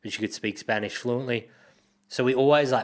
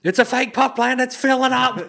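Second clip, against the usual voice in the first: high, loud, laughing quote; laughing retelling; 14 semitones higher, 7 dB louder than usual. Retold or imitated. Recalling the mate's panic to a friend, laughing. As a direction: squeal it out between laughs.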